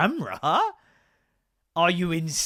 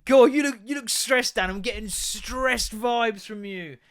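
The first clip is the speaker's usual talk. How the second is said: a light, higher voice for the viewer; imagined viewer; 6 semitones higher than usual. Retold or imitated. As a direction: lightly voice a concerned onlooker. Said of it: "if you're sitting there thinking".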